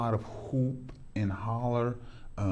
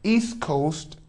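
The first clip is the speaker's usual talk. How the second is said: louder, higher game-show hype; hyped challenge; 4 semitones higher, 3 dB louder than usual. Real, not acted. Host challenging his guest to settle the rap debate, hyped. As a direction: build it up like a big showdown. Host hyping the big question.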